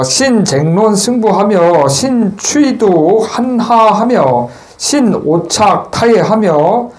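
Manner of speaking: slow, measured chanting of the text; precept recitation. Shown as a demonstration. Monk reciting a precept text to the congregation. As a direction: intone each phrase slowly.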